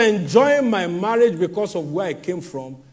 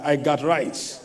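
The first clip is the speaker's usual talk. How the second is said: I got rights with a South African lilt; light South African imitation; South African way of saying it; 5 semitones lower, 4 dB quieter than usual. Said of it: "That's how they say it in South Africa".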